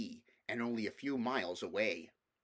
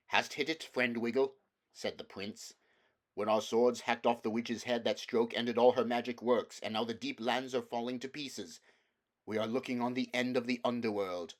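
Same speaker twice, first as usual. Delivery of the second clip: grave prince; 4 dB louder than usual. Acted. Prince voiced in story.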